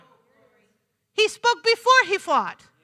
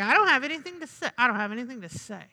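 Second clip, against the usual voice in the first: quick, dropping into a low, soft grumble; mock attitude; 6 semitones lower, 5 dB quieter, faster than usual. Preacher imitating people with nothing to say, mock attitude. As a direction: imitate someone refusing with attitude. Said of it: "you're saying it with an attitude".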